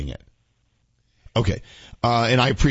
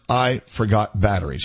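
drawn-out ad read; spooky ad-man delivery; slow dramatic read; 4 semitones lower than usual. Shown as a demonstration. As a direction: lean on each word slowly. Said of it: "we're listening for the words".

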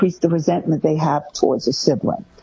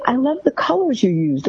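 specific praise; 6 semitones higher than usual. Shown as a demonstration.

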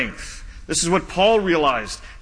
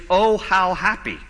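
Oh stretched, happy falling; slow joyful translation; slower than usual. Shown as a demonstration. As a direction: savour Oh, how happy. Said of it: "literally translates".

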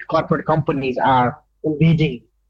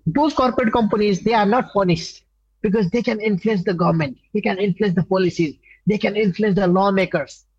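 impassioned, higher-pitched accusation; aggressive; 4 semitones higher than usual. Real, not acted. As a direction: press each charge insistently, pitched up. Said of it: "talking like this aggressively".

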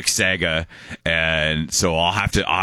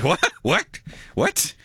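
high mock-startled questioning; 13 semitones higher, much slower than usual. Host plays students reacting to teacher, startled squeak. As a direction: squeak it as if taken aback.

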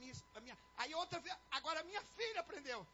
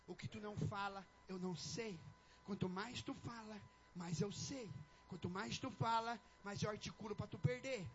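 lightly voiced devil, lower than usual; devil egging on; 5 semitones lower, slower than usual. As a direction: egg them on in a low, sly tempter's voice. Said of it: "o diabo vai falar assim".

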